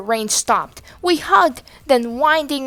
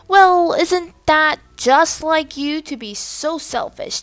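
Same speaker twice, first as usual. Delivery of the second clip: scolding; 5 semitones higher, 5 dB louder than usual. A narrator's reading. Trap scolds over pajamas.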